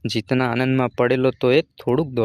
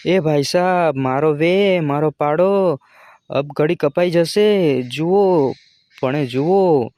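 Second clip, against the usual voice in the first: raised, urgent begging; frantic cry for help to passers-by; panicked plea; 4 semitones higher, 4 dB louder, slower than usual. Acted. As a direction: beg desperately for help, voice strained high. Jumo begs strangers, panicked.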